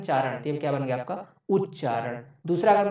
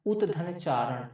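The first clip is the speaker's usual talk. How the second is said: slow sounding out; 4 dB quieter, much slower than usual. Shown as a demonstration. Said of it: "teacher sounds out the split".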